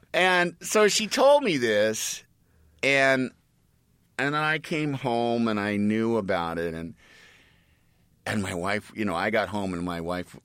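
ordinary delivery

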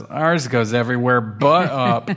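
laughing cheekily; cheeky laughing remark. Acted. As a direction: tease with a giggle. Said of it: "sticks his tongue out and says".

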